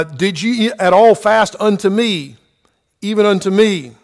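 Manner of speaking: emphatic reading, stretching "Did ye at all fast unto me". Shown as a demonstration. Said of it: "So you have an emphasis".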